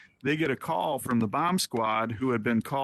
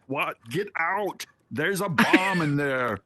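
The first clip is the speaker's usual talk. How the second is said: lightly put-on action-hero accent, higher on "Get out"; Arnold Schwarzenegger; 4 semitones higher, slower than usual. Friend joking with family about the restroom, light action-hero impression. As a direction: imitate a friend's mock action-hero warning, drawn out at the end. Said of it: "say in his best Arnold Schwarzenegger voice".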